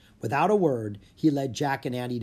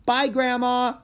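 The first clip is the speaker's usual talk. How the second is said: laughing; 12 semitones higher, 6 dB louder, slower than usual. Acted. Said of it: "Annie said with a laugh".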